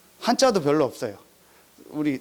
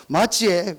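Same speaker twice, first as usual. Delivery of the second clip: Daegu dialect; slower than usual. Retold or imitated. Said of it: "대구 사투리로".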